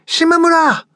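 piercing high call. Acted. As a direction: drunk woman crying out for her man down the hall. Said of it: "she called in a high voice".

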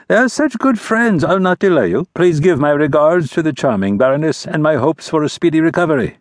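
breezy courtly dismissal; prince. A narrator's reading. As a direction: prince waving the baron off with false charm. Narrator voices the prince.

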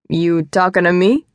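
lightly voiced New York taxi driver accent; a touch of movie tough-guy taxi driver accent, ending on a rise; De Niro accent. Man in suit joking with lost woman, De Niro accent. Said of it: "perfect De Niro taxi driver accent".

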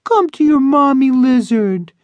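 high cooing pet voice; iguana talking voice. Acted. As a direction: coax a lizard sweetly. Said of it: "in her iguana talking voice".

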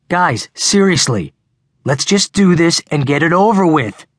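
high, strained attempt at reason; shrill. A narrator's reading. Boy trying to calm two quarrelling friends, coming out shrill. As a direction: try to sound reasonable but come out shrill. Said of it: "tried to sound reasonable, but he came out shrill".

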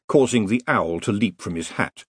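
ordinary delivery, nothing marked

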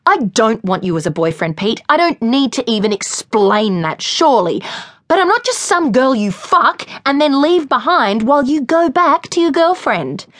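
angry confrontation. Acted. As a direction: lay into him, rising to a peak. Lily's angry confrontation of Pete.

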